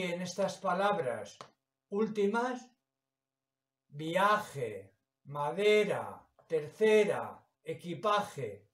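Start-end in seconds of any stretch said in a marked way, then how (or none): 3.9-8.7 "viaje, madera, tercera, equipaje", each said apart with a falling stressed syllable. Shown as a demonstration. Teacher sounding out final words to find stress, stressed syllables brought out. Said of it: "la sílaba que suena más fuerte".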